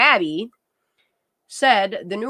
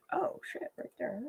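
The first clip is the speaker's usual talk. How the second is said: hushed whisper; 2 semitones higher, 13 dB quieter than usual. Real, not acted. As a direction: breathe it under your breath. Reacting while reading.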